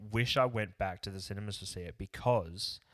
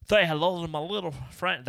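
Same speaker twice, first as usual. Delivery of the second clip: hammed-up Cuban gangster accent, higher and louder; bad Cuban mobster accent, pushed up high; terrible gangster accent; 8 semitones higher, 5 dB louder than usual. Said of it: "that was a terrible accent".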